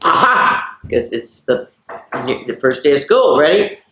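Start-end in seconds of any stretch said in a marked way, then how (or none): 0.0-0.8 whispered aha. Acted. Reacting to book page.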